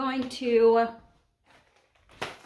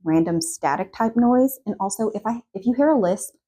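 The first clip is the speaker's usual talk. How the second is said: wearing a retainer; 3 semitones lower than usual. Real, not acted. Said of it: "I have my retainer in".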